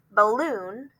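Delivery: BALLOON with a quick "buh" and a full LOON; shortened first syllable. Shown as a demonstration. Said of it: "We say that first syllable kinda shortened".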